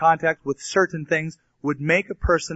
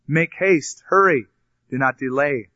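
urgent, louder call, peaking on hurry; cried out; 4 dB louder than usual. Acted. Jonathan urging the lad to hurry, calling out. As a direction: hurry him along from a distance. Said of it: "Jonathan cried out after the lad".

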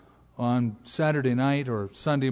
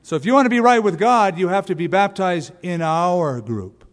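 put-on Southern accent; 3 semitones higher, 3 dB louder than usual. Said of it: "why do I always do a Southern accent?".

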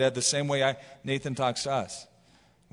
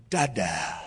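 put-on babyish Dada; 9 semitones lower than usual. Grown daughter still says Dada.

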